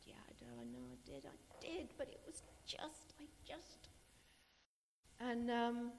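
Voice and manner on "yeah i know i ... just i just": breathy whisper, barely there; whispered reply. Retold or imitated. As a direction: whisper it back through tears. Tearful reply to comforting friends.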